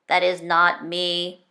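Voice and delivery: robotic voice. Acted. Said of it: "said Tubbs in his robotic voice".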